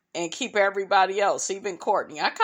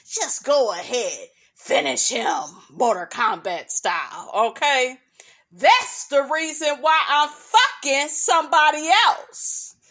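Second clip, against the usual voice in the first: mock finishing blow; 3 semitones higher than usual. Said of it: "the part, honey, that we all love to say".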